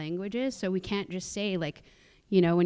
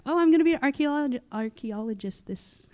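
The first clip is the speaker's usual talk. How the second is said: mock excited; 7 semitones higher, 5 dB louder than usual. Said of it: "you know".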